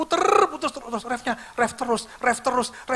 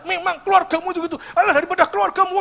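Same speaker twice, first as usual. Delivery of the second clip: higher, fast, snapping spouse; mock quarrel; 6 semitones higher, faster than usual. Wife quarrelling with husband, mock heated retort. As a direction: fire it back at your spouse.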